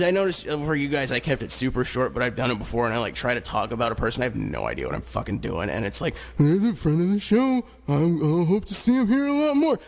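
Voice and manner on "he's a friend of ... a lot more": imitating his own stiff guest intro; hammy radio host intro, higher; cheesy host voice. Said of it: "That's what I said last week".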